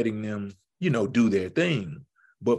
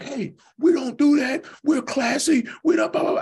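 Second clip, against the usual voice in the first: higher, louder scolding of the team; halftime pep speech; 13 semitones higher, 4 dB louder than usual. Retold or imitated. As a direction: lay into the players. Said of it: "getting all on them".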